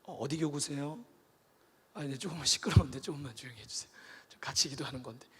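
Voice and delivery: mock-polite pastor shushing softly; gently. Pastor politely hushes a weeping elder, soft and quick. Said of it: "목사가 젠틀하게 가서".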